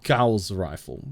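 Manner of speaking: slow "Gauss" with an ow vowel; Gauss like house. Shown as a demonstration. Streamer trying the corrected word, "Gauss" like house. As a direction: ease into "Gauss", rhyming with house. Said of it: "Gauss like house".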